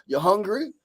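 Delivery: put-on light Jamaican accent, grandfather asking; a hint of Jamaican lilt. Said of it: "Hit a Jamaican accent".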